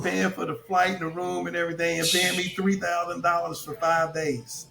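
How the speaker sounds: imitating an excited man; retold excitement. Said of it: "he was so excited".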